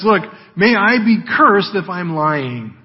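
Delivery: slow, insistent vow; mildly acted self-curse, pressed home; swearing an oath. Peter swearing he isn't lying, insistent oath. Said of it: "the idea here of oath".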